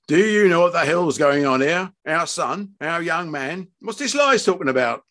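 confused father raising his voice. Acted. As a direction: demand answers from your wife. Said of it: "Fred's voice was raised".

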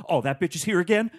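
high, loud, fed-up outburst; mock annoyed usher; exasperated usher. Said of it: "she goes".

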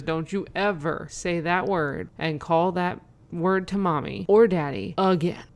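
slow, deliberate telling-off, mildly stern; retold stern scolding. Mom turning on her son in the car, understated stern scolding. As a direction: space out the warning, voice held in. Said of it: "I responded much more viciously".

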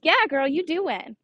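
proud hype, lightly acted; retold cheering on. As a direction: cheer on a little girl. Retold cheering on her daughter.

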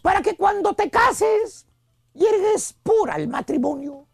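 slow, lightly voiced motherly advice; protective mother. Mother advising daughter on marriage, protective mock lecture. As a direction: counsel the daughter, voice sinking at the end. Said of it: "palabras muy comunes de una madre a su hija".

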